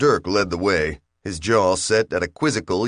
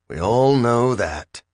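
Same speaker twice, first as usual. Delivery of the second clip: forced soothing charm; 4 semitones higher, slower than usual. A narrator's reading. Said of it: "as soothing and charming as his nature would".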